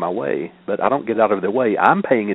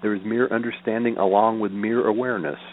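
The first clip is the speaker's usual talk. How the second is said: measured, evenly phrased sutra recital; formal reading aloud of Buddhist scripture. Acted. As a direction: read the teaching out in steady, repeating cadences.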